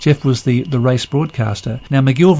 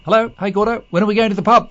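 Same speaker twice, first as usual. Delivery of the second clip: high voice; 9 semitones higher, faster than usual. Retold or imitated. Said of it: "Norman May said".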